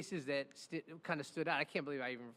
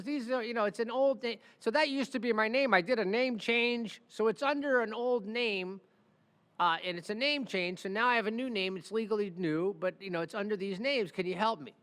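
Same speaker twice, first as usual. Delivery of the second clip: higher, louder smooth-talking hustler voice; smooth talker; 4 semitones higher, 3 dB louder than usual. Retold or imitated. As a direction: charm him like a slick old con man. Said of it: "Real smooth talking guy".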